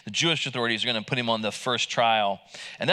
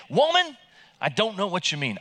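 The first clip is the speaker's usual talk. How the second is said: panicked denial; 5 semitones higher than usual. Shown as a demonstration. Peter denying the servant girl, "Woman" cried out high. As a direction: fling out "Woman" in a high startled yelp. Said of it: "that's how I read it now".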